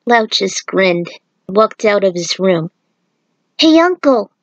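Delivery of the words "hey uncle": put-on higher boyish call to his uncle; young Jin calling. A narrator's reading. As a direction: call him back before he leaves. Child Jin calls after uncle.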